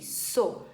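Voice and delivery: So with a clear unvoiced s; syllable so. Shown as a demonstration. Teacher sounding out the syllable So for children. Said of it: "som de S".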